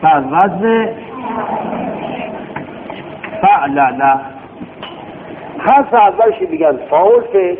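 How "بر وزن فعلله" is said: dahraja said with long pauses; paced demonstration. Shown as a demonstration. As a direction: pause between the word and its pattern. (با مکث و شمرده)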